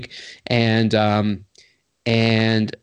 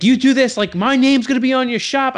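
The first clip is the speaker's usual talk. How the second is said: retold screaming; 10 semitones higher than usual. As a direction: yell the threat at him, pitched way up. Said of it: "just screaming".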